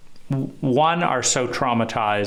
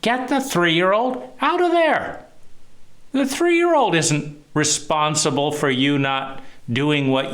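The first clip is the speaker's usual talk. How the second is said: furious outburst; 10 semitones higher than usual. Retold or imitated. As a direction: yell it at the wife who won't show up, full fury. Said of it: "And I'm like".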